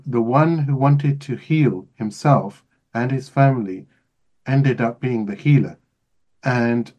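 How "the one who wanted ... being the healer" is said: measured retelling for listeners; slow down and lay each phrase out; slow, deliberate restatement. Shown as a demonstration. Host repeats for listeners, slower deliberate emphasis. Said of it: "I will say it again".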